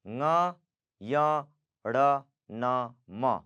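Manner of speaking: ng, yang, ण, न, म through nose and mouth; ng, yang, ण, न, म nasalised, falling away at the end; nasal consonants. Shown as a demonstration. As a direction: recite ng, yang, ण, न, म as nasal sounds. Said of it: "अनुनासिक है".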